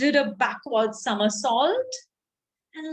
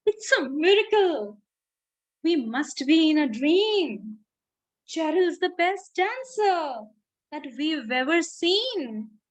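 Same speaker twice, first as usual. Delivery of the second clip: shouted. Acted. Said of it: "They shouted".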